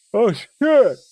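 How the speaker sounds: sudden loud high yelp of surprise; startled swear. Real, not acted. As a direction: blurt it out, caught off guard. Sudden outburst reading aloud.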